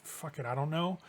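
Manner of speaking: soft, sighing shrug in words; resigned sigh. Acted. Tracy shrugging off the other woman's question, resigned sigh. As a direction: say it on a weary little sigh, softly. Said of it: "like, a sigh of".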